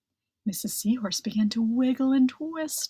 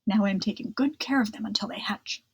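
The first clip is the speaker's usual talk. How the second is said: fast, breathy whispered line; quick whisper; faster than usual. Acted. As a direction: hurry it out in a whisper. Mister Curtis explains.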